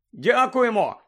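high call over the shoulder; shouted thanks. A narrator's reading. Boy running off, shouting back over his shoulder. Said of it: "закричав Рон через плече".

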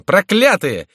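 high, loud outrage easing at the end; exasperated, high-pitched outburst; indignant cry. A narrator's reading. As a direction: burst out cursing, then settle. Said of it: "вскричал он".

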